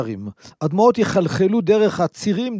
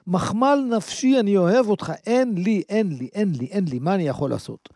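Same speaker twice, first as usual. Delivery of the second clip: tender apologetic father; 2 semitones higher than usual. Acted.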